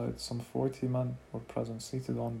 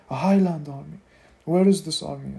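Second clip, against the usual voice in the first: scoffing challenge; 4 semitones higher, 11 dB louder than usual. A narrator's reading. Townsman scoffs at Mace.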